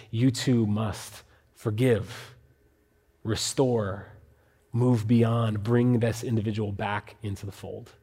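slow and soft, gently pleading; tender pastoral plea. Retold or imitated. Paul pleading with the Corinthian church, slow and soft. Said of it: "I imagine, tears in his eyes, with all the pastoral love".

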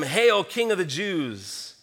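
slow, drawn-out Hail, King of the Jews; slow hailing call. Retold or imitated. Soldiers calling out to Jesus, a slow drawn-out hail. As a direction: stretch out Hail slowly like a proclamation. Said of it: "they began to call out".

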